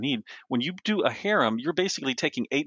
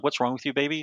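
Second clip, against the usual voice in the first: mildly concerned, close to usual pitch; imitating concerned wife; 3 semitones higher than usual. Wife checking on her crying husband, mild imitated concern. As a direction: ask it as a caring wife would, understated. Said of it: "sort of mentality".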